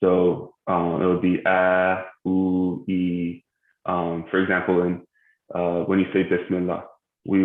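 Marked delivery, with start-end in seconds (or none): 1.5-3.4 "a, u, e" each drawn out to two counts; long vowels. Shown as a demonstration. Tajweed teacher showing the extended vowels, long and even. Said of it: "we extend each of them".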